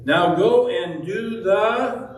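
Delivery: slow, loud go and do; Jesus commanding the lawyer; firm command. Acted. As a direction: send him off with force.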